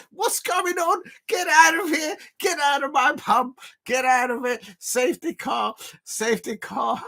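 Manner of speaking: very high mock-Scouse shouting; Liverpool accent. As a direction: squawk indignantly in a put-on Liverpool accent. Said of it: "the Liverpool voice of me is coming".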